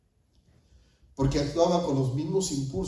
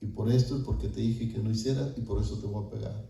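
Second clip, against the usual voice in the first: low, measured fatherly reasoning; retold calm explanation; 3 semitones lower, 4 dB quieter than usual. Wife's father explains before punishing, retold calmly in lower voice. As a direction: lay out each reason quietly. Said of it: "nos sentaba y nos decía".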